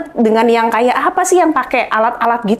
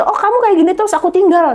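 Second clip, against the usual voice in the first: imitating husband; 9 semitones higher than usual. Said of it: "dia jadi gini tiap kali".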